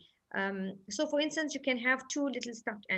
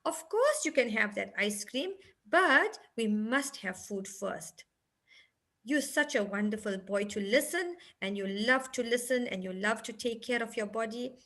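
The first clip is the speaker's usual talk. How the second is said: sweet praising parent. Shown as a demonstration. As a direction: coo approval like a proud parent to a toddler. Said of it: "And then you'll say".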